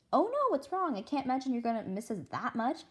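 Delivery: high, worried teacher; alarmed and caring; concerned. Acted. Teacher rushes over concerned.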